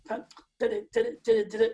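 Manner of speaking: halting da-da, falling apart mid-pattern; fumbled, broken-up drum rudiment; stumbling rudiment. Shown as a demonstration. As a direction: mimic a student tripping over the sticking. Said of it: "struggling there".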